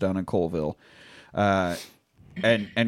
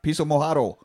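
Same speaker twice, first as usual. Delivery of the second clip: put-on French accent; 4 semitones higher than usual. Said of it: "your French accent".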